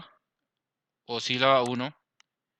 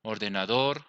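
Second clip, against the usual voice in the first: "ordenador" leaning on the final "dor"; stress on last syllable; 3 semitones lower, 4 dB quieter than usual. Shown as a demonstration. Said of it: "tiene el acento en la última sílaba".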